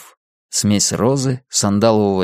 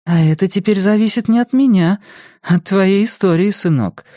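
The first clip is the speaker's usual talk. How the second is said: with a smile; 10 semitones higher than usual. Acted. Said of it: "ответила она с улыбкой".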